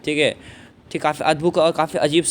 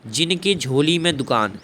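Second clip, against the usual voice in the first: quoting the verse; slower than usual. Shown as a demonstration. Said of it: "क्या बोला, देखिए".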